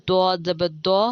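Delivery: heavy emphatic d with rounded vowel in دو; distinct letter articulation. Shown as a demonstration. Teacher showing learners similar letters, heavy d. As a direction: say دو as a full, loud Arabic Dad. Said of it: "ان کی ادائیگی بالکل".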